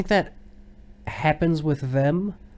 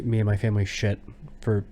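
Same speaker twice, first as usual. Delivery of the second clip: usual speaking voice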